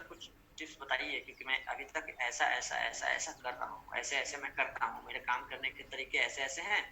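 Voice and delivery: understated, low-pitched request for advice; humble team member. Acted. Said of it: "अगर उसने ये कहा होता ना".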